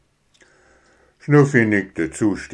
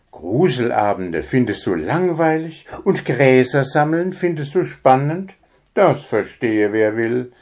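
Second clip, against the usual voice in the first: incredulous; 4 semitones higher than usual. Acted. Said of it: "meinte Grabi".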